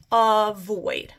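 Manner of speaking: AVOID stretched as a long "uh", then "void"; syllables drawn apart. Shown as a demonstration. Teacher repeating avoid for spellers, syllables drawn apart. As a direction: draw out "avoid" in two beats. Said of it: "I've got my uh".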